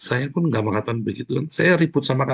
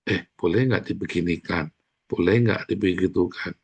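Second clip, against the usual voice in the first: polite deferent asking; 4 semitones lower than usual. Retold or imitated. Newcomer politely asks senior.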